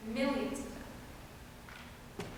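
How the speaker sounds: whispered very slowly: "Millions of them"; hushed echo. Acted. Stage manager to the audience, whispered echo. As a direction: let "Millions of them" fade to a slow whisper.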